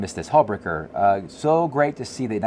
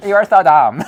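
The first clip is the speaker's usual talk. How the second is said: put-on louder, laughing valley girl jab; mock valley girl; 7 semitones higher, 8 dB louder than usual. Husband mimicking his wife calling him dumb, loud laughing valley girl voice. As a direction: laugh through a hammed-up valley girl insult. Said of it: "Mindy's a valley girl".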